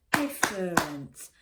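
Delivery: "different" slow and loud, split into three beats; slow syllables. Shown as a demonstration. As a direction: break "different" slowly into its syllables. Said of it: "say that slowly and clap the syllables".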